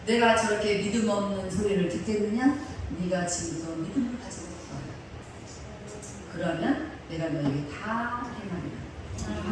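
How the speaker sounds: lightly voiced solemn divine voice, soft; God's voice. Preacher voicing God's promise, softly solemn. Voice of God continuing.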